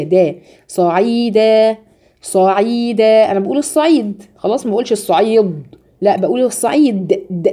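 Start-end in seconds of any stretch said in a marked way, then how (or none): 0.0-3.3 صعيدا slowly with a thin د; light dal, slow. Shown as a demonstration. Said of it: "لا، هي دا". (صعيدا بدال مرققة ببطء)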